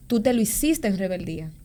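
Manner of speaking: hushed whisper; whispered prophecy. Retold or imitated. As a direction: breathe the pastor's words softly. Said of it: "me dijo".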